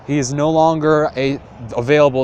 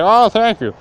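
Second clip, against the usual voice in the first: squeaky grateful thanks in a high voice; light high-voiced thank you; high old man voice; 8 semitones higher, 4 dB louder than usual. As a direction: pitch up for a frail old man.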